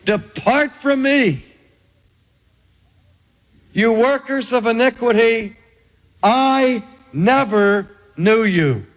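slow, grave verdict from the judge; Jesus turning away the workers of iniquity; slow solemn sentence. Acted. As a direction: pronounce banishment deliberately, word by word. Jesus rejecting the false believers.

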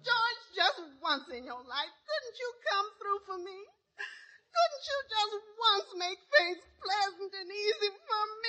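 high, pleading pretend sobs; fake crying. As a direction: cry to guilt him into it. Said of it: "Now, stop that blubbering".

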